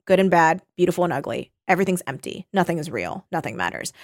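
put-on measured reading of a world-weary old character; lightly voiced weary Morla; story reading. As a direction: read it with falling, resigned line endings. Reads Morla's speech aloud from the book.

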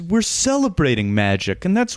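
smooth it over like a magician host; calming speech. Retold or imitated. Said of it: "the guy had to give a speech kinda, like, calming everyone down".

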